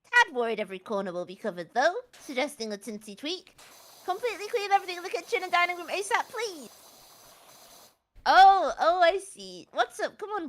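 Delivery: lightly voiced northern English character; reading in his voice. Host reading texts about Gromit to co-host, put-on character voice. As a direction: act out the messages with lively rises and falls. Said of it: "read out in his voice".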